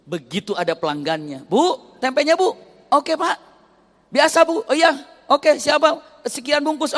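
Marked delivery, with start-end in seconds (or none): 1.4-7.0 much higher, louder bright market banter; lively exchange. Retold or imitated. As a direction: play the customers brightly. Customer and seller exchange.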